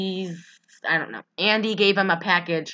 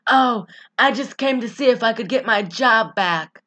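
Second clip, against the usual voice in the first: imitating Molly Shannon; 4 semitones higher, 3 dB louder than usual. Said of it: "That's how she talks".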